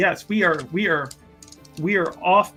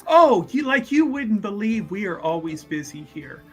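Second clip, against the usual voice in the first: effusive host; 3 semitones higher than usual. Acted. Host answers lord's remark on bustle.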